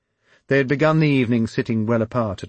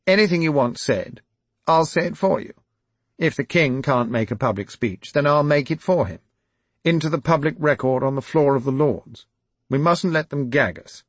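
raised, louder voice of an aggrieved lord; aggrieved landowner gets louder until he hits parasite; indignant aristocrat rant; 7 semitones higher, 6 dB louder than usual. Acted. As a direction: rant against the protesters, building to outrage. Quillington grandly volunteers.

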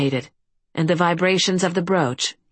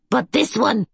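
put-on grudging old caretaker; 5 semitones higher than usual. A narrator's reading. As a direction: give in reluctantly to your lord. Agamon points at Kerrigan.

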